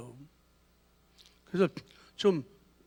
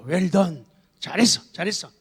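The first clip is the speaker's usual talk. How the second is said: praising cheer; 2 semitones lower than usual. Shown as a demonstration. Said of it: "영어의 감탄사를 사용하라".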